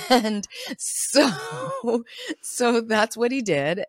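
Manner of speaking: laughing through the words; laughing while talking. Real, not acted. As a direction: chuckle while saying it. Laughs at own joke.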